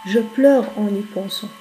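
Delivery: measured, even poetry reading; poem recitation. Acted. Teacher reading a Lamartine poem to the class, measured recitation. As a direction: recite verse line by line with short pauses.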